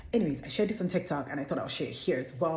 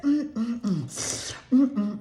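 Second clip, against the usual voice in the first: creepy humming; 5 semitones higher, much slower than usual. Retold or imitated. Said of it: "who makes those sounds".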